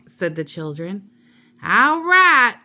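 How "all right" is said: high, louder eager "All right"; eager start. A narrator's reading. Amelia Bedelia starting reading time, high and eager. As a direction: launch it with gusto. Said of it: "said Amelia Bedelia".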